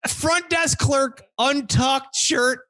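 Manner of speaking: high, slow disbelief; incredulous. Real, not acted. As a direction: spell it out in disbelief. Disbelief at the clerk.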